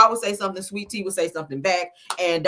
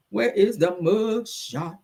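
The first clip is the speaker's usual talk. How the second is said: playful searching; 2 semitones higher, slower than usual. Pretend.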